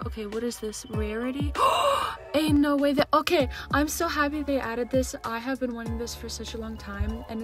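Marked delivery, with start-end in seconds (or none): 1.9-5.2 excited gasp. Real, not acted. New filter feature.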